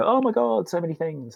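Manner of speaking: overwhelmed outburst. Retold or imitated. A colleague listing work woes, overwhelmed wail. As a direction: sound swamped by it all. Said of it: "they'd go".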